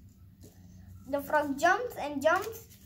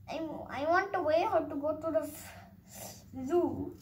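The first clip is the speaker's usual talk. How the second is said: whispering. Acted. Bird asks the way, whispering.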